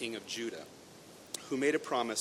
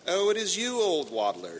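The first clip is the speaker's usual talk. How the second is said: high, loud startled cry; surprised; 8 semitones higher, 9 dB louder than usual. Acted. Princess surprised at the frog, high startled cry. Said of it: "she said".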